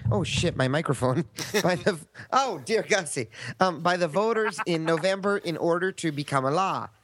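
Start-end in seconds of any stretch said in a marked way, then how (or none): 1.6-6.9 put-on folksy Minnesota accent. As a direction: play the sweet Minnesotan. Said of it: "speak in a Minnesota accent if you can".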